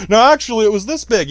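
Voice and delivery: "No, actually, it was this big" with "actually" pushed high and loud, like a fisherman inflating his catch; mock fisherman bragging. Fish story joke, exaggerating size.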